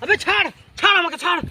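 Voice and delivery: high-pitched demand to be released; acted agitated plea; struggling protest. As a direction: protest as if wrestling free. Guru struggling to get free.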